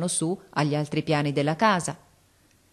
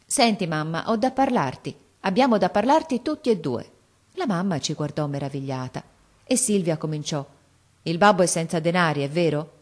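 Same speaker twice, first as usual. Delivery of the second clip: lightly voiced girl, pleading a little; a hint of a determined daughter; earnest young girl. Lightly voiced girl earnestly telling her mother.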